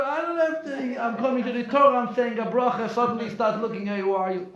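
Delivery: loud, high, worked-up complaint; mock outraged rant; imitated protest. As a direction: act out an indignant congregant. Voices the congregant's protest.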